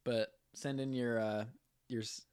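talking through hiccups; words interrupted by hiccups. Real, not acted. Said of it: "I'm just hiccuping really".

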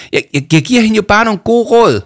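high, loud, stuttering protest; indignant shouting. A narrator's reading. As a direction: defend yourself at a shout. Shouting girl defends herself. (højt, hidsigt forsvar)

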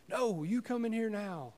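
high, slow, weak voice of a dying friend; frail dying man. Retold or imitated. Dying James insists.

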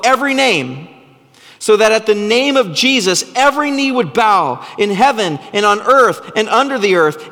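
ringing, emphatic scripture reading; impassioned preaching. Real, not acted. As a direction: proclaim it phrase by phrase with growing force. Preaches scripture at rising force.

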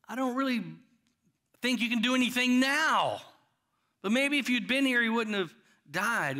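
doubting. Retold or imitated. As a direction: say it as if you doubt he can help. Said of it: "The doubt in that is like".

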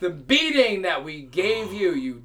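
mocking jeer at the giant; taunting. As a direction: taunt him from the ship. Taunting the blinded Cyclops.

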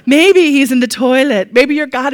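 loud Hans and Franz taunt. Retold or imitated. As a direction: bellow it like a pumped-up bodybuilder. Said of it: "sounds like Hans and Franz in my mind".

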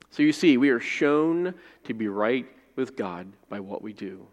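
measured public reading of the passage; scripture reading. Shown as a demonstration. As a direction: read the Bible aloud to the church, steady. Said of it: "read this passage again, slowly".

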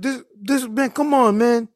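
put-on high, pleading Arab-accented protest; imitated Arab accent. Arab driver complaining to the mailman, high imitated Arab accent. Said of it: "He's an Arab dude".

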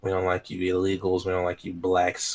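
put-on Boston accent. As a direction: parody Boston bigot, lightly voiced. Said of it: "that was my Boston accent".

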